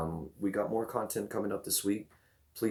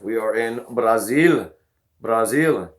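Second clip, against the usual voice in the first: hype call; 3 semitones higher, 9 dB louder, slower than usual. Real, not acted. Hype shout-out to Brazilian viewers.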